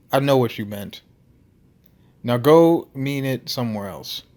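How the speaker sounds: put-on dismissive Russian-accented big man; Nikolai. Huge Russian dismissing Tony at the bar, Russian accent. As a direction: send him off in an amateur Russian accent. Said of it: "his Russian accent thick enough".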